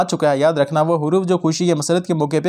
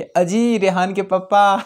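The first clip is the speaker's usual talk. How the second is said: filmy wife calling; 2 semitones higher, much slower than usual. Retold or imitated. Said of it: "फिल्मों में हमने देखा है".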